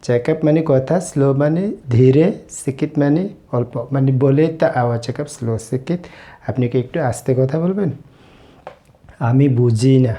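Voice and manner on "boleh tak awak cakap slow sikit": very slow, each word laid out for learners; slow, careful Malay for students; slow teaching demo. Shown as a demonstration. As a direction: spell it out slowly so a beginner can follow. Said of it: "teacher repeats Malay phrase".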